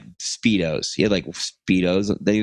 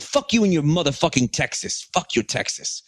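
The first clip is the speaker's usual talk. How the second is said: higher-pitched retold cursing, easing off at the end; mock screaming; 6 semitones higher than usual. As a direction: imitate an angry insult without shouting. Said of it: "we're screaming at each other".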